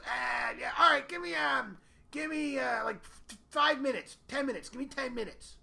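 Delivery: high, loud flustered Bob; a flustered friend begging for ten minutes; Bob impression. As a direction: stall them at the door, high and hurried.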